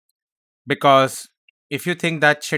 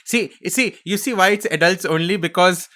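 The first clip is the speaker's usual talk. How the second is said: mock conspiratorial; 5 semitones higher, 4 dB louder than usual. Jokey conspiracy reveal, mock excited.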